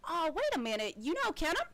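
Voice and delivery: light up at the name; excited halfling. Acted. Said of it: "and she says".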